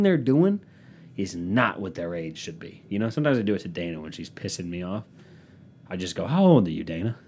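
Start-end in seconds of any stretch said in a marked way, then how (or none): 6.3-7.2 put-on stern scolding question, louder on how old. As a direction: scold like a strict parent wagging a finger. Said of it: "I say it really stern-like".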